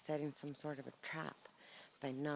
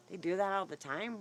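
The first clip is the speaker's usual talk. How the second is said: louder, higher disbelieving repeat of the neighbor's words; incredulous echo; 5 semitones higher, 7 dB louder than usual. Retold or imitated. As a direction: throw "They do that all the time?" back at him with a rising, louder disbelief. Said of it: "And he goes".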